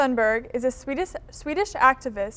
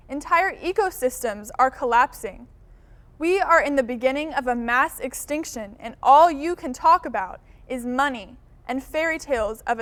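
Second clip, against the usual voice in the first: forceful, emphatic public address; accusing young activist's speech, punching key words; impassioned speech; 4 dB louder than usual. Acted. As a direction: confront the leaders with firm indignation. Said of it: "she was asked to deliver a speech".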